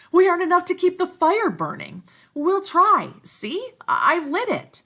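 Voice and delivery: put-on anxious boys. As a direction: plead and scheme high. Boys' dialogue.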